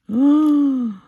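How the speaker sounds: high, loud drawn-out gasp; long admiring intake; awed gasp. Real, not acted. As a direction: gasp in delight at something lovely. Awed reaction to the beads.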